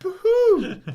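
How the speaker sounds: hammed-up imitation of a man crying by a fence; mock sobbing. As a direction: wail "Boo-hoo" like an overgrown baby. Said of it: "squatting by a chain link fence going".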